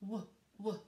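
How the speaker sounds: W, w: the letter name, then the bare w sound. Shown as a demonstration. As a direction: isolate the sound in "W, w". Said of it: "what sound do we hear first".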